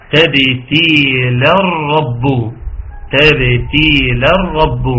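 slow تبتيل الرب with the ر held double; doubled ra in joining. Shown as a demonstration. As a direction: run into الرب and lean on the doubled ر. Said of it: "هيتم تشديد الراء أختنا في الله عند الوصل". (تشديد الراء في «الرب» عند الوصل)

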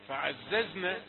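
فعززنا with a sharp doubled whistling z; clear hissing zay. Shown as a demonstration. Teacher isolating the sibilant sound. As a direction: stress the z in فعززنا. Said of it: "انتبه إلى أن الزاي".

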